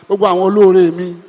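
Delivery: a hint of a beggar's plea; mock begging prayer. Worshipper begging God for rich benefactors, mock plea. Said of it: "You are not saying".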